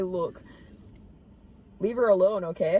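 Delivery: low-pitched try at an Irish accent; Irish accent attempt. Shown as a demonstration. Friend reading Niall's letter, attempting an Irish accent. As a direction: have a shaky go at Irish. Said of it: "Can you do an Irish accent?".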